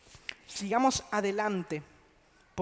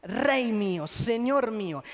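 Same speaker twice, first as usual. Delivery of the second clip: tender appeal; 2 semitones lower than usual. Retold or imitated. A son tenderly addressing his king. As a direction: call him gently, like a loving son. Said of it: "apelando al mejor momento de la relación".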